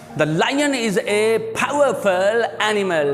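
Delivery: slow teacher model reading of "The lion is a powerful animal"; slow classroom dictation; model pronunciation. Shown as a demonstration. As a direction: read "lion" slowly and clearly, as in dictation. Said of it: "The lion कहना है".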